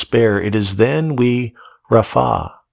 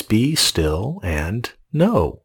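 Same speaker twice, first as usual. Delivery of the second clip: slow solemn quote; 3 dB quieter, much slower than usual. Acted. Quoting God's command slowly.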